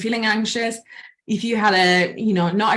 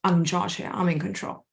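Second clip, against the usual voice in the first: softer, hushed inner affirmation; calm self-talk; 3 semitones lower, 5 dB quieter than usual. Retold or imitated. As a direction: settle into quiet control. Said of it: "always that signal".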